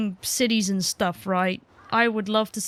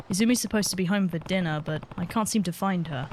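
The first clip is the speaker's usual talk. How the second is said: composed game hero; 3 semitones lower, faster than usual. Acted. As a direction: read the hero's line low and contained. Voices hero asking neighbour.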